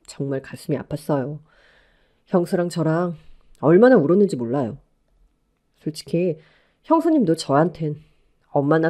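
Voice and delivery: low, subdued husband recounting family sorrow; apologetic husband. Acted. Husband explaining his mother to his wife, apologetic and subdued.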